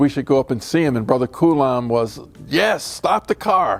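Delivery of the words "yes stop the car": big booming voice, loud, slow, high-pitched. Retelling how Brother Coulon answered on passing the hospital: loud voice. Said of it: "with his loud voice".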